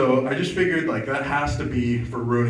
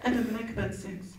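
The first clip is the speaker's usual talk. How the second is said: lightly voiced, higher prissy Obama voter; a hint of a prim voter, mocking; Obama voter impression; 10 semitones higher, 9 dB quieter than usual. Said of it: "That's my impression".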